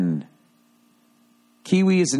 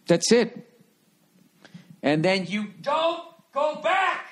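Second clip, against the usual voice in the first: much higher, slow and soft; mock airy send-off; high falsetto; 12 semitones higher, 3 dB quieter, slower than usual. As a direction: float it up in falsetto.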